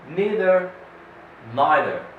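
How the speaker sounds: neither said NEE-ther then NYE-ther; both neithers contrasted. Shown as a demonstration. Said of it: "American vs British".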